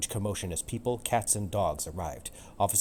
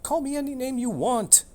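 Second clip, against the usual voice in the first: much higher, coaxing tomcat voice; Romeo purring; 4 dB louder than usual. Acted. Cat Romeo wooing Juliet on the balcony, purring high. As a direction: sweet-talk her as the smitten cat. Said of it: "Romeo purred".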